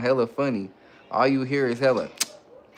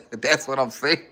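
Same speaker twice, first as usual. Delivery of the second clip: laughing. Real, not acted. Laughing at slap fight image.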